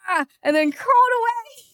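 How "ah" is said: imitated baby cry. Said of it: "Like, he just went".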